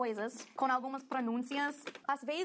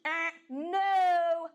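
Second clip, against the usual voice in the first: mock oops; 5 semitones higher, 5 dB louder than usual. Teacher catches a mistake.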